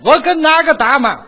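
loud, high mock challenge; mock shout. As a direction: bellow it like a cocky fighter. Comic boxer shouting for opponent.

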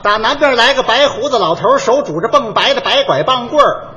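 绕口令示范，字字清楚; 像教人一样把绕口令念出来; 念绕口令. Shown as a demonstration. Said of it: "那我随便跟你说一个". (清清楚楚念一段绕口令)

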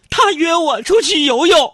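high, loud, slow half-laughing cry; indignant wail. Retold or imitated. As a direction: wail the punchline, laughing and crying. Abu's outraged punchline. (又哭又笑地高声嚷)

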